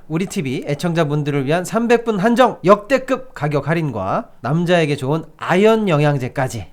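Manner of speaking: upbeat sales pitch read; hard sell ad. Acted. Reads a live ad.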